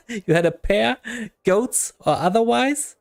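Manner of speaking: lightly acted mockery that climbs in pitch; taunting game character. Himaxi mocking Morty's missing legs, lightly acted taunting. Acts out insult contest.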